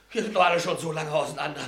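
quick, laughing through the words; drunken laugh. Acted. Drunk man laughing to his old comrades. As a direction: laugh it off bitterly, a bit tipsy.

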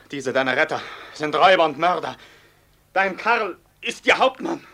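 high, loud despairing cry; anguished outburst. Acted. Karl confessing to Amalia, loud and high. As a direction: tear the truth out of you.

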